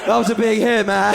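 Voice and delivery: usual speaking voice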